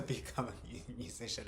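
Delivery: real laugh breaking into the words. Real, not acted. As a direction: laugh first, then talk through it. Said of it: "I'm laughing 'cause I".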